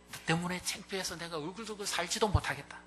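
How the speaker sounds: mock a father's angry rebuke; imagined scolding. Imagined father scolding his shamed child. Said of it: "뭐 이러면서 막 야단치고".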